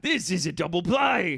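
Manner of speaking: mock London cabbie; put-on Cockney. Cabbie revealing his scheme to passenger, put-on Cockney. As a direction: announce it in comic Cockney. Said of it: "Cockney taxi captain".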